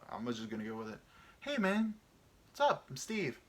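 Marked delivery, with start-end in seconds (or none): 1.4-3.4 a hammed-up voice introducing himself; put-on voice. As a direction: greet like a cartoon dude. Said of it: "racist voice".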